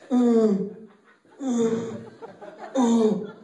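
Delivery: short effortful groans; hammed-up straining moan; mock grunting moans. Acts out noises during the deed.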